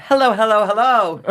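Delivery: high, loud sing-song hellos; a bright laughing entrance; RuPaul entrance. Retold or imitated. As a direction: sweep in greeting everyone. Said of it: "she comes into the workroom".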